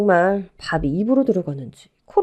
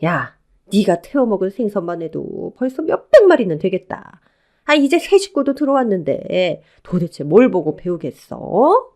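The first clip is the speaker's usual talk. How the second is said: irritated mother-in-law telling her off; angry scolding; 4 dB louder than usual. Acted. Mother-in-law berating elder daughter-in-law before the newcomer, angry. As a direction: keep berating her, exasperated. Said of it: "한바탕 화를 내고는".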